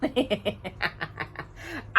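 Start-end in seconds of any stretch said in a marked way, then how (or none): 0.0-0.0 scornful "Ha!" into a giggle; mocking laugh. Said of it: "into a fit of giggles".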